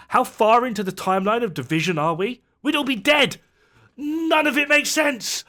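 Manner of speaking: high-pitched incredulous exasperation; exasperated rant. Real, not acted. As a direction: let the disbelief climb into a high-pitched protest. Exasperated rant about the story's absurdity.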